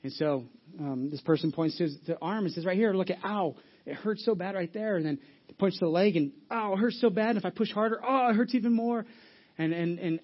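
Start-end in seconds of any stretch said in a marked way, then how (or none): 2.6-9.0 whiny patient. Retold or imitated. Patient complaining to doctor.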